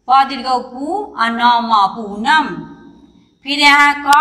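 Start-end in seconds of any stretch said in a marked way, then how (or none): 0.1-2.5 slow spelling out. Shown as a demonstration. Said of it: "इसको बार बार पढ़ना है".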